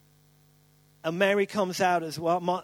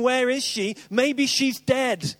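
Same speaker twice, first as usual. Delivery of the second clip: mock worried; 5 semitones higher, 3 dB louder, slower than usual. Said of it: "staring out ... thinking".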